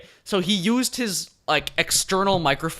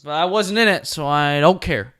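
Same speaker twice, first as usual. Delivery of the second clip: smug dismissal; 6 dB louder than usual. Real, not acted. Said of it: "the most dick thing I could have said".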